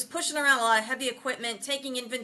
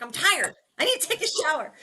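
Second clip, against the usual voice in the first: lightly whiny mock complaint; tired Ralph; 6 semitones higher, 3 dB louder than usual. Uncle answering mom, lightly whiny and tired. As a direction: grumble it like a worn-out uncle. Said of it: "he's like".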